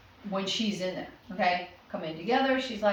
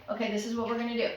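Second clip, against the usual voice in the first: quick instruction. Shown as a demonstration.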